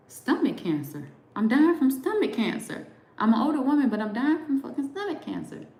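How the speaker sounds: high-pitched tearful wail, re-enacted; retold boo-hooing. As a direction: act out sobbing through a deathbed confession. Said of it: "I'm boo-hooing".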